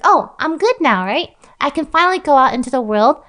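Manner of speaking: a touch of dawning delight; relieved child. Acted. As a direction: announce your new freedom, lightly in character. Freed child speaks in told story.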